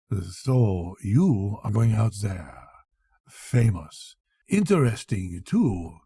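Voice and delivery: slow, a hint of a knowing doctor; sly old doctor. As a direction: drop it like a private joke, slowly. Doctor muses on destination.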